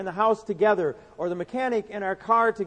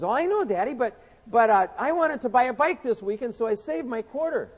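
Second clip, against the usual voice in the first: put-on little boy voice; 5 semitones higher, 3 dB louder than usual. Preacher voicing Johnny begging his daddy, higher child voice. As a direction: beg like a six-year-old wanting a bike.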